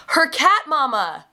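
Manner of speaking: lightly voiced small boy, high and slow; a hint of a kindergartner stating the obvious; little boy voice. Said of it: "And this little boy goes".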